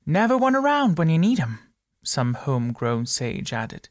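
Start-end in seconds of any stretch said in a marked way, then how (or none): 0.1-1.6 high, loud barroom complaint; a know-it-all calling out the obvious; loud grumbling patron. A narrator's reading. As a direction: pub regular's loud gripe. Homegrown sage grumbles aloud.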